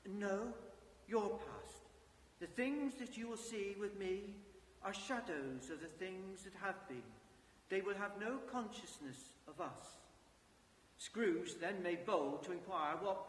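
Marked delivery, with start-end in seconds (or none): 0.1-10.0 calm ghost voice. Acted. Ghost speaks to Scrooge.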